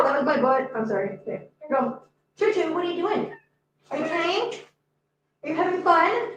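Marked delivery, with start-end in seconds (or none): 2.4-6.3 high, gentle questions to a pet; pet talk. Real, not acted. Owner asks playing cat Choo Choo, high pet talk. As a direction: coo questions at the cat in a raised pitch.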